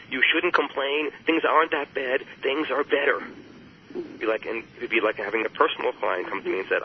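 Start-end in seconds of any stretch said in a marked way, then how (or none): 0.1-3.2 dismissive. Retold or imitated. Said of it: "says it dismisses".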